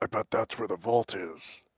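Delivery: soft, hushed whisper. Covering mouth in character, telling another character a suspicion: whispering. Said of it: "in a whisper to Basil".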